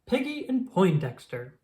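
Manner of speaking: slow showman announcement, first name high; lightly voiced announcer; announcing names. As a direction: roll out each name like a ringmaster. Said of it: "I present to you".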